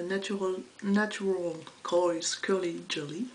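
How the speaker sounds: put-on slow, clumsy French try at an English accent; bad English accent. Vlogger reading a product name in a half-hearted bad English accent. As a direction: read the brand name in a deliberately awful English accent. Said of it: "J'essaye de prendre un accent anglais tout pourri".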